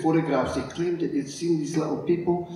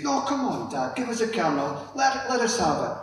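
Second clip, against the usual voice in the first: put-on pestering little girls; 4 semitones higher than usual. Girls keep pestering dad.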